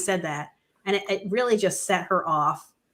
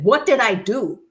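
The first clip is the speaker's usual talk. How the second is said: desperate plea; 4 semitones higher, 6 dB louder than usual. Retold or imitated. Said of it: "Mahmoud chasing her in the street saying".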